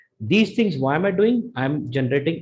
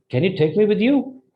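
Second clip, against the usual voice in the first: high, rising "Can you take me with you"; demonstrated eager question lifting toward YOU; energetic question intonation; 6 semitones higher than usual. Shown as a demonstration. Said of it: "So that kind of tone".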